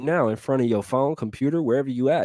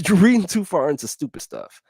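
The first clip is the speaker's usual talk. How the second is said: chuckling, higher; amused higher retort; laughing repeat; 8 semitones higher, 4 dB louder than usual. Real, not acted.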